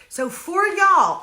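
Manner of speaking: stressed devotion to viewers; emphatic. Real, not acted. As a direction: lean hard into for y'all.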